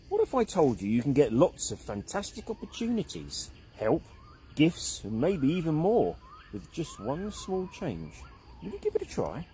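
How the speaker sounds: soft, lightly voiced wise elder; gentle old caveman.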